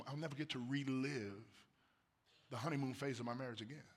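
quiet wistful repeat of "never". Real, not acted. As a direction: let the words fall quietly. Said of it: "I'll never get to relive those".

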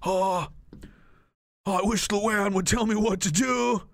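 lightly voiced helpless cartoon dad; hapless sad-sack dad. Leader wishing Luann would tell him what to do, hapless. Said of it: "Milhouse's dad is this guy".

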